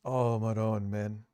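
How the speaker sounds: a bad fake Italian accent. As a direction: say it in a lightly faked Italian accent. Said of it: "Stop with the fake Italian".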